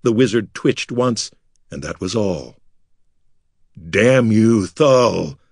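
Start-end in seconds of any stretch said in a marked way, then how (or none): 3.9-5.4 louder, roughened furious cry; furious shout. A narrator's reading. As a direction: curse him in fury. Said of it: "Artek shouted in fury".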